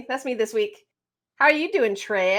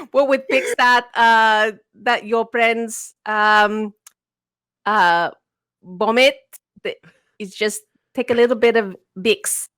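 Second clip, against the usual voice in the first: put-on Filipino mom accent; 2 semitones lower than usual. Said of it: "I can't hold my mom's accent".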